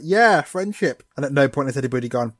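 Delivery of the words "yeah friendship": slow, higher, louder cheesy cheer; mock rousing Ash. Ash cheering Jenny's friendship plan, hammed-up and slow. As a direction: stretch it out like a cartoon moral. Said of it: "Ash is like".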